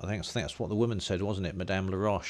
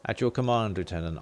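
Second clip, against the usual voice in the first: official reply; 4 dB louder than usual. Acted. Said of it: "be official about this".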